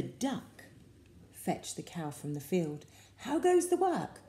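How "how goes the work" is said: high, loud call of the lazy farmer; the farmer shouting from his bed. A narrator's reading. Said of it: "called the farmer".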